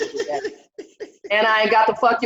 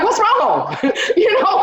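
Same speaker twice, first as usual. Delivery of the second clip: laughing; 13 semitones higher, slower than usual. Real, not acted. Laughing question.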